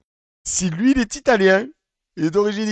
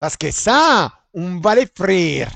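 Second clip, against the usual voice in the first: Mario voice; 3 dB louder, slower than usual. Retold or imitated. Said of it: "il a fait la voix de Mario".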